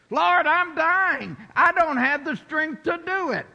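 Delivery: high, loud, desperate plea to the Lord; hammed-up prayer of a weary believer; mock pleading believer. Voiced complaining believer praying.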